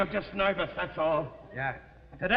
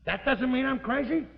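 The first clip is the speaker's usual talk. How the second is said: higher-pitched doubting question; sceptical echo; 4 semitones higher than usual. Acted. Husband questions wife's reassurance, sceptical. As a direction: lift it as a challenge.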